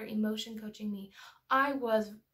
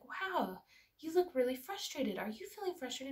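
higher, lightly concerned parent voice; gentle empathy; 4 semitones higher than usual. Retold or imitated. Mother coaching her frustrated daughter over shoes, gentle empathy. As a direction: reflect a small child's feeling back to them.

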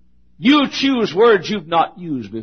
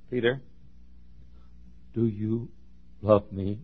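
tender plea; 7 semitones lower, 13 dB quieter than usual. Acted. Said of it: "the heart of God reaching".

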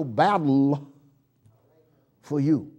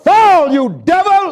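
louder, higher, slower rebuke; slow shouted rebuke; slow loud command; 11 semitones higher, 13 dB louder, slower than usual. Real, not acted. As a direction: drag it out and throw it down. Commanding the devil, repeated.

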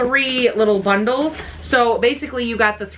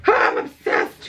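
whispered "I'm obsessed", slow; breathless whisper; slower than usual. Real, not acted. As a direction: gasp it out, overcome. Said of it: "we need to calm down".

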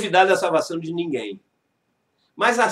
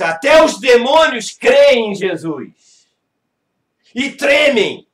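forceful scripture; 5 dB louder, slower than usual. Acted.

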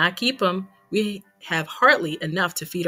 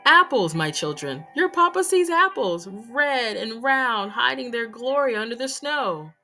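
louder, rising with delight, slowing on red and round; joyful Papa; 4 dB louder than usual. Acted. Papa calling down from the tree to his children, joyful and rising. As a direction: announce the apples like a treasure.

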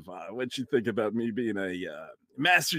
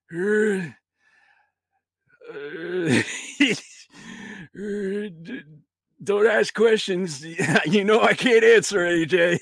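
put-on old grandpa voice; 7 semitones higher, 4 dB louder, slower than usual. Grandpa ghost voice.

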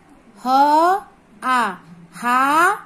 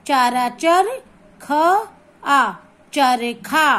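चरखा slowly built up, ending on a strong long खा; stress on खा; much slower than usual. Shown as a demonstration. Teacher spelling out a word for pupils, stressed खा. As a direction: land firmly on the खा of चरखा. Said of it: "खा पे जोर से बोलेंगे".

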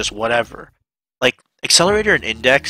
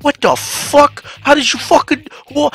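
shocked disbelief; 14 semitones higher than usual. Retold or imitated. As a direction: stretch out the shock. Reacting to superhuman strength.

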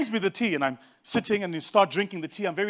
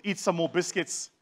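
condescending offer; 5 dB quieter than usual. Retold or imitated. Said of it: "Important to mention the".

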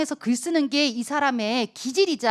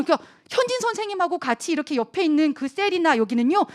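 ordinary delivery

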